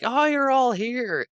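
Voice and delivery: very high, loud, slow delighted shriek; excited squeal. Retold or imitated. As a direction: shriek with joy at the arrivals. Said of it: "starts screaming".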